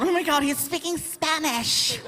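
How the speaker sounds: high, slow, hushed gasp of alarm; mock freaked-out. Onlookers panic at hearing Spanish, hushed and high. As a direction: act out being spooked by Spanish. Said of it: "it freaks people out".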